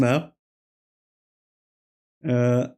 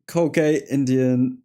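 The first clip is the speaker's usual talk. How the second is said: voice crack; slower than usual. Real, not acted. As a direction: voice cracking mid-word. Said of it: "that voice crack, mate".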